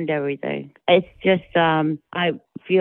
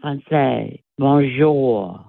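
dragged-out French; much slower than usual. Retold or imitated. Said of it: "it was always elaborate".

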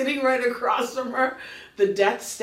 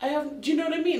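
high, puzzled and fed up; exasperated complaint; 5 semitones higher, 3 dB quieter than usual. Retold or imitated. She questions the yelling driver, high and exasperated. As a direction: push back at him, baffled. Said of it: "And I'm like".

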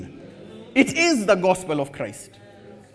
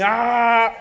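mock shout; 5 semitones higher, 4 dB louder than usual. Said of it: "they start shouting".

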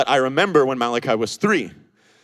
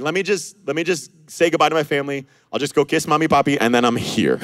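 quick, higher, mildly hurried excuse-making; hasty excuse; 5 semitones higher, 4 dB louder, faster than usual. Retold or imitated. Would-be follower stalling Jesus, lightly voiced hurried excuse. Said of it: "He's like".

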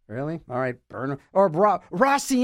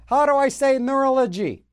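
asking Alexa; 7 semitones higher than usual. Pretend.

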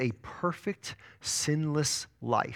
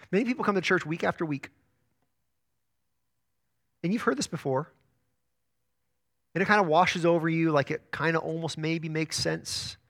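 gentle pastoral appeal. Real, not acted. Preacher turns softly to congregation.

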